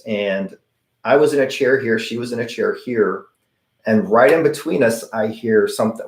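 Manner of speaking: ordinary delivery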